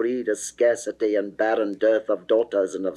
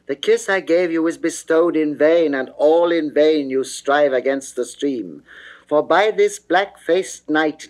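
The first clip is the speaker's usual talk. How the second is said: louder, fast rebuke, rising higher; indignant Adonis; 3 semitones higher, 4 dB louder than usual. Acted. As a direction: scold her firmly, impatient with her pleading. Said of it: "quoth Adon".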